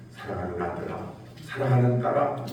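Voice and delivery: put-on God's gentle, hushed voice calling a beloved child; loving call. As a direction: call your child softly with love. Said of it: "사랑의 음성으로".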